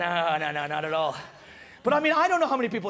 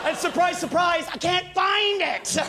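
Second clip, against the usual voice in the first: sarcastic surprise; 6 semitones higher, slower than usual. Real, not acted. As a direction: throw out the irony big. Sarcastic punchline.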